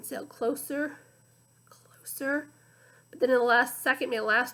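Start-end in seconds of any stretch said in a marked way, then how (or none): 1.7-2.5 unvoiced hush; whispered suspense; suspenseful whisper. A narrator's reading. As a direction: breathe it for suspense. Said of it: "suspense as plane sails".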